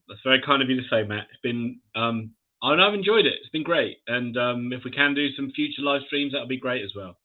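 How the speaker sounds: distant echoey mic sound; talking in a big echoing room. Real, not acted. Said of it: "you sound a little echoey now".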